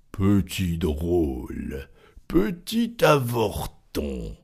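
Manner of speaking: slow, scornful giant; contemptuous. Acted. Giant sneering at the tailor, slow contempt. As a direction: drag out the insult with disdain. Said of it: "d'un air de mépris".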